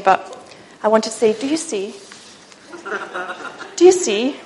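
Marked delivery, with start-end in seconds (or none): 1.3-1.9 soft, lightly posh English question; posh English accent. Retold or imitated. Preacher imitating the poshest people known, soft posh English accent. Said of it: "wanted to speak like them". 3.8-4.4 lightly imitated posh English speech; posh English accent. Preacher wishing to sound like posh friends, posh English accent. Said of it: "are the poshest people".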